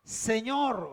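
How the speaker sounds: imitación leve de un llamado temeroso; llama al Señor con un toque de temor, voz casi normal; temeroso, apenas insinuado. Retold or imitated. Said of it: "Estaba temblando, temeroso y le dijo". (temeroso, muy contenido)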